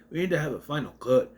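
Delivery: brisk attempt at a Scottish accent; mock Scottish. Teacher restarting his line about the final cut, mock Scottish accent. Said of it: "who's just randomly Scottish".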